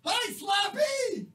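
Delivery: high, slow clown greeting; silly clown. Acted. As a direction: stretch it out like a clown. Greeting Dan in booth.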